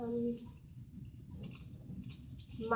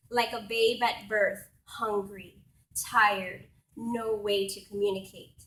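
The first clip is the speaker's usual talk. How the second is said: deliberate spoken-word phrasing with weighted pauses; poetry recital; 4 dB louder than usual. Acted. Poet honouring a farm worker for an audience, reciting.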